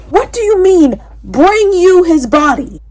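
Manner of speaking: loud and high disbelief; can't believe what she just read; stunned outburst; shocked. Real, not acted. Shocked reading reaction.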